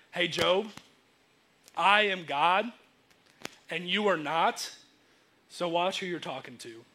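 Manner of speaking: measured warning with weighty pauses; matter-of-fact. Acted. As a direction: lay it down as God, pausing between phrases. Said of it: "In a very matter-of-fact way".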